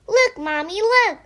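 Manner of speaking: rising excited shout; excited child. Acted. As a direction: show off the prize eagerly.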